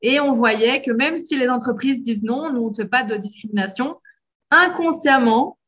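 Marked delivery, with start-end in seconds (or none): 4.5-5.6 "inconsciemment" drawn out slowly, higher and louder; emphatic stress. Real, not acted. Explaining hidden accent bias to the host, weighting "inconsciemment" slow and loud. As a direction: lean hard on "inconsciemment", stretching it out.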